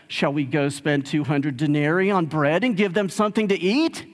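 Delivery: lightly sarcastic retold question. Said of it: "If you think that sounds sarcastic".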